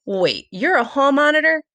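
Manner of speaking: a friend's startled question; surprised. Acted.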